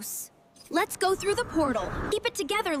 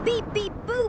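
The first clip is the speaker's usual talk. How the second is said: robot beeps; 4 semitones higher than usual. Acted. Robot companion beeping.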